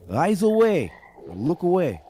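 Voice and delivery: high, loud shout to a teammate; yelled warning. Acted. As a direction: yell an urgent combat warning. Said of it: "I'm gonna yell to Whisper".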